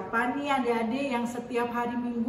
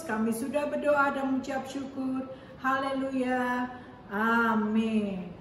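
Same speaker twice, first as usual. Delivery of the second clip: prayer. Real, not acted. Opening prayer before the lesson.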